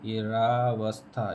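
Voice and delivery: drawn-out wrong form of दुरावस्था. Shown as a demonstration. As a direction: stretch रावस्था slowly as the mistaken spelling. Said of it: "ये गलत है".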